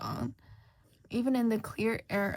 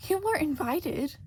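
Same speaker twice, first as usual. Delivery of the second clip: louder, higher hatter's shout; 6 semitones higher, 4 dB louder than usual. Acted. Hatter shouting at Shota across the tea table. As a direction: blurt it out at once. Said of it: "shouts the hatter immediately".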